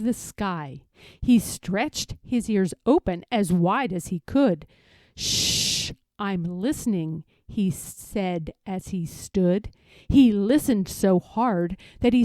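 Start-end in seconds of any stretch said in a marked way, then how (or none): 5.1-7.2 whispered shh, very soft; hushed whisper. Acted. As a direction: hush him so you can listen. Rabbit hushes the bear to listen.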